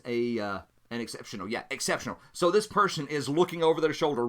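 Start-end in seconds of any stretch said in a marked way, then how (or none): none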